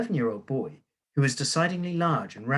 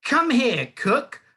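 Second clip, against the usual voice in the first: much higher, louder calling out; shouted summons; 11 semitones higher, 5 dB louder, slower than usual. A narrator's reading. Headmistress summoning cook, high and loud. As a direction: call her in, mocking triumph. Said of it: "the Trunchbull shouted".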